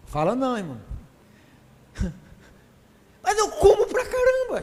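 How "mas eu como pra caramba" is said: laughing confession. Real, not acted. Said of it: "laughing at himself".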